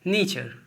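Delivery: नेचर said nay-char with a clear ch; teaching pronunciation. Shown as a demonstration. Teacher models nature for students. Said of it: "क्या होता है?".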